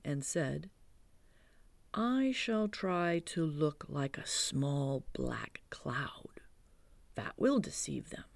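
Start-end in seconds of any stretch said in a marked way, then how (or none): 1.9-8.2 lightly voiced Pooh, hushed and thoughtful; Pooh's hushed voice. Pooh explaining honey plan to Christopher Robin, hushed. Pooh plans cloud disguise.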